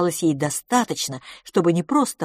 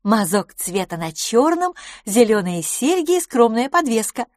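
higher, louder character voice; approving lady friend; 5 semitones higher, 3 dB louder than usual. Acted. Lady admiring her guest's outfit, approving.

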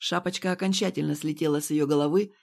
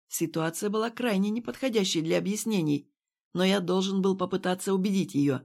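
usual speaking voice

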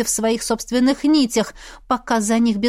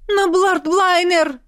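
high, slow alarmed cry; shocked exclamation; 8 semitones higher, slower than usual. Acted. Noni bursting in, a high slow alarmed cry. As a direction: gasp the name in alarm. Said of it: "воскликнула она".

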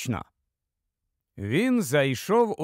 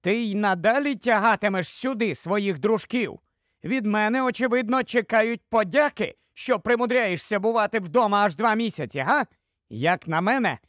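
higher-pitched, sharp-tongued wife; sharp female voice; 5 semitones higher than usual. Acted. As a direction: lightly voice a wife complaining sharply. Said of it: "один із них жіночий і досить різкий". (різкий жіночий голос)

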